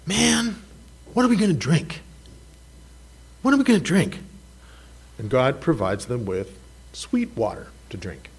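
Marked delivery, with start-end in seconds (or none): 0.1-4.2 high whiny mock complaint; mock whining complaint; grumbling Israelites. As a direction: whine it like a thirsty crowd. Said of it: "They start grumbling".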